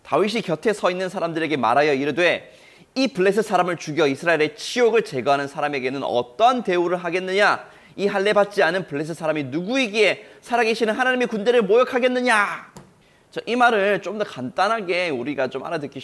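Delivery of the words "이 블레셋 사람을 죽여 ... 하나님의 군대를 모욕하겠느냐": indignant reading. Acted. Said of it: "분노의 말을 막 쏟아내기".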